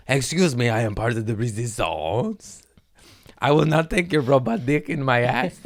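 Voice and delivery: pompous resistance fighter, breaking into a laugh; defiant mock declaration; mock rebel. Mocking AI fears to his cohost, defiant mock rebel.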